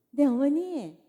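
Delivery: loud, chipper yes to the mother-in-law; a sudden loud, polite phone greeting; bright dutiful answer. Acted. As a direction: put on the good daughter-in-law voice.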